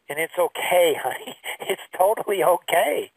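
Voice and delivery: retold tender reassurance to a little one; gentle reassurance. Grandpa comforting his upset granddaughter, tender reassurance.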